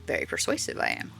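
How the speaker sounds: lightly hammed-up old woman charming a customer; old stall woman. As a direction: coo at the customer like a doting old vendor. Old stall woman voiced in game.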